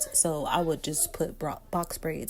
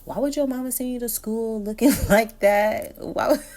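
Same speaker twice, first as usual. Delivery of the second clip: mocking girls; 5 semitones higher, 6 dB louder than usual. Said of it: "walked up to me and was like".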